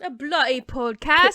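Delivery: put-on echoed line in a British accent; mock British singer. Host echoes pretend singer discovering podcast, mock British. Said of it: "she'll be like".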